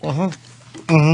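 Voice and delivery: hummed through the nose, mouth shut; uh-huh with a full mouth. Shown as a demonstration. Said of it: "let's do it real".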